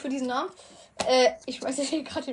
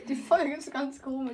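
mit Schluckauf. Real, not acted. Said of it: "Das ist Schluck auf".

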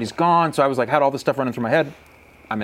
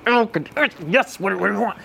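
exasperated, pitched much higher; hammed-up fed-up groan at the phone; mock annoyance; 8 semitones higher than usual. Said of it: "I'm, like, all rage caged".

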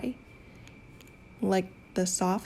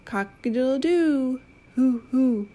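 rooster and owl calls; 4 semitones higher, 4 dB louder than usual. Pretend.

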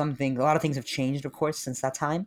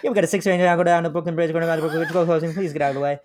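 loud, higher mock train conductor; hammed-up train announcer; subway announcer; 4 semitones higher, 6 dB louder, faster than usual. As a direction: boom it out like the subway PA.

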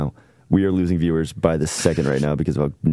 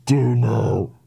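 high shrieking laugh of disgust; 8 semitones higher, much slower than usual. Real, not acted. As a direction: laugh and recoil at once.

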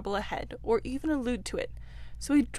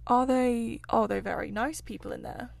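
a trifle nervous. Acted. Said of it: "a trifle nervously".

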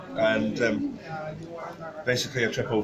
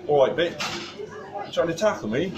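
a bad put-on English accent, cheeky bloke; imitating an English rugby player's accent, half-hearted; rubbish English accent; 6 semitones higher than usual. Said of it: "I apologise for the rubbish English accent".

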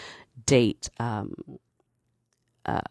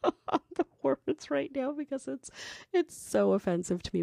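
choking on the words; 13 semitones higher, 4 dB quieter than usual. Real, not acted. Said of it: "I'm, like, choking on the words".

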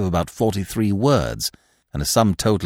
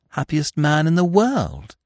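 slow, reverent and higher; devout; 8 semitones higher than usual. A narrator's reading. Freddy devoutly correcting Eve, slow and reverent. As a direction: say it like a vow, slowly. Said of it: "corrected Freddy devoutly".

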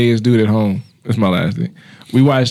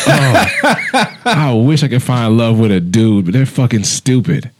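laughing; slower than usual. Retold or imitated. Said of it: "I'm like".

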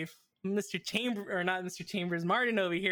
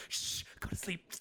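hushed whisper, lulling a zombie; whispering over a crib; 3 semitones lower, 8 dB quieter than usual. Retold or imitated. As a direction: whisper it like soothing a baby. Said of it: "She's like".

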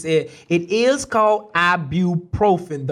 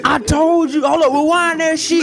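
excited shout; 9 semitones higher, 5 dB louder than usual. Real, not acted. Excited shouting back and forth.

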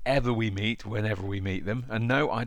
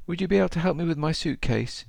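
put-on old lady voice; 9 semitones higher than usual. Old lady quoted in story.

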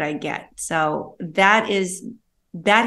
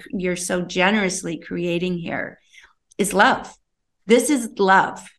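hushed, heartfelt whisper. Real, not acted. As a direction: drop to an intimate whisper. Whispered emphasis on love.

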